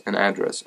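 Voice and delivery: "address" as AD-dress; AD-dress variant. Shown as a demonstration. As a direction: open "address" with a clear a as in cat. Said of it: "however you would like me to say that".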